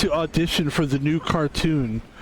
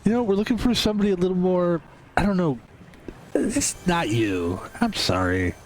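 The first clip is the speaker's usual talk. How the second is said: casting director; 3 semitones higher than usual. Pretend.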